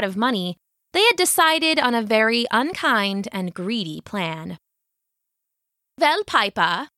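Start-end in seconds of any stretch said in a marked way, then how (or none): 6.0-6.9 mayor. Acted. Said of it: "said the mayor".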